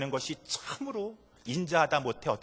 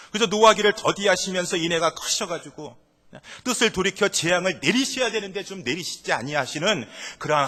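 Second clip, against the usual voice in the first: loud, raised, indignant complaint to God; Jonah's angry protest; 5 semitones higher, 6 dB louder than usual. Acted. Jonah protesting loudly to God over mercy for Nineveh, angry. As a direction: hurl the grievance upward, loud and high. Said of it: "요나가 이렇게 말하고 있는 것입니다".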